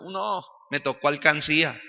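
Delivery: mildly disdainful grumble; understated mock disdain; imitated contempt. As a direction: mimic a let-down father, lightly scornful. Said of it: "me dijo así con desprecio".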